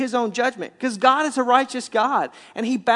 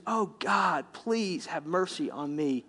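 soft, slowing acted prayer; understated broken-hearted prayer, hushed toward the end; contrite plea; 4 semitones lower, 7 dB quieter, slower than usual. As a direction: plead humbly, letting the voice sink. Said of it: "with a heart that just says".

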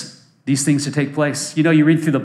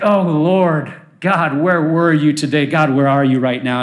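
acted plaintive prayer, sinking in pitch; mock weary lament. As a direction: play worn out, complaining to God. Weary prayer on tough days.

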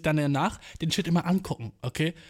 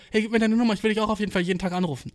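eager; 4 semitones higher, faster than usual. Retold or imitated. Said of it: "waren alle so".

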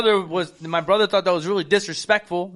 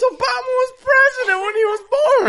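laughing quote. Retold or imitated. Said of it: "He goes".

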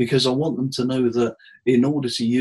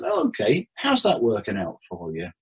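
mock surprise. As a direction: feign surprise, then needle him. Therapist's dry comeback.

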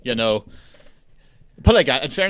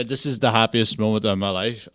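happy news with no change of tone; unmoved, level delivery; monotone; 3 semitones lower than usual. Shown as a demonstration. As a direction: deliver joy without any lift. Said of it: "there's no change of tone".

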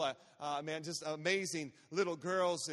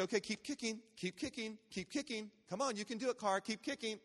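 soft, encouraging swim instructor; quietly urging, imitated coach; gentle coaxing; 2 semitones higher, 6 dB quieter than usual. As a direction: coax a small child to keep going. Instructor coaxing child along.

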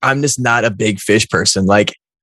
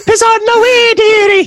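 very high falsetto nanny impression; Missus Doubtfire; 4 dB louder, slower than usual. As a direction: join in as the squeaky film nanny. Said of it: "it's just Missus Doubtfire".

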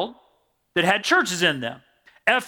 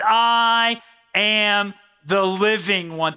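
solemn scripture reading; 3 semitones lower than usual. Acted. Preacher reading scripture aloud.

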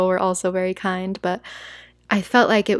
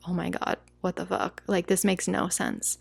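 softer, bewildered grumble; bewildered muttering; 6 dB quieter than usual. Retold or imitated. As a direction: mutter it lost and baffled. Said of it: "I was like".

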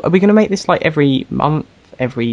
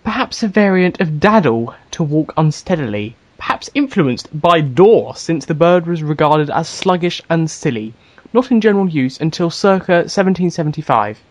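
reading a dictionary entry; 3 semitones higher than usual. Shown as a demonstration. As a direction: read it out like a reference book. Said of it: "Can you look up dawdling".

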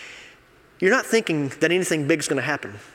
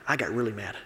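"I got really mad" whispered, softer and lower; whispered confession; 6 semitones lower, 8 dB quieter than usual. Real, not acted. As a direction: confide it in a hushed aside. Admits anger, then repeats it.

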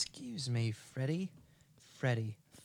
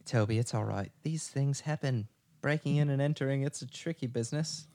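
put-on English accent. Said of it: "that English one".

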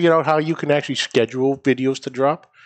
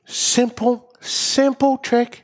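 proud reveal; 8 semitones higher, much slower than usual. Real, not acted.

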